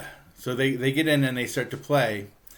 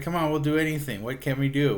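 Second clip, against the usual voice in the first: retold pleading; 5 semitones higher, 4 dB louder than usual. Band begs for another chance.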